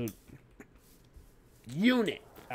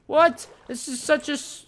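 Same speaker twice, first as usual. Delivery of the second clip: sudden shocked outburst, much higher and louder; shocked what; 10 dB louder than usual. Real, not acted. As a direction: blurt it out in total disbelief. Startled by short distance.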